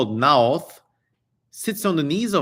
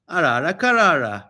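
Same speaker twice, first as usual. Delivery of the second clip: repeated mock spell; 4 dB louder than usual. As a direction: repeat the charm Arara karara. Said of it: "you only need two words".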